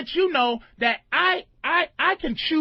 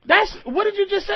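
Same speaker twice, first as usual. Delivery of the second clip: incredulous what, bitch; 6 semitones higher than usual. Shown as a demonstration. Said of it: "here's the different inflections of bitch".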